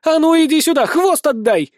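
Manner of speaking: high, loud scolding shriek; angry squeal. A narrator's reading. Nelli chasing her teaser for the tail, squealing. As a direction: squeal after the thief, demanding it back. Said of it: "визжит Нелли".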